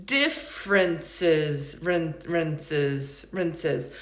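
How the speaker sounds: "Differences" very slow and low, then just its unstressed "rinses"; reduced last syllables. Shown as a demonstration. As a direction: break "Differences" down, both final vowels weak schwas. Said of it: "They both sound like uh and eh".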